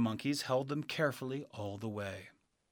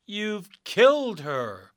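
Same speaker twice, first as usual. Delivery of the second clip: high, loud, slow cheer of joy; little people cheering their freedom; 9 semitones higher, 9 dB louder, slower than usual. Acted. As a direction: celebrate the witch's death. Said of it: "the little people cheered".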